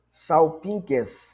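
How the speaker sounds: "Salpinques" said slowly with a nasal "n" for the gamma; drawn out, careful "Salpinques". Shown as a demonstration. Teacher slowly modelling "Salpinques", gamma as N. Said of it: "esse gama aqui você lê como N".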